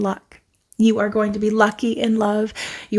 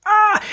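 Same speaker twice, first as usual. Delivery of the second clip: delighted squeal; 12 semitones higher, 3 dB louder than usual. Real, not acted.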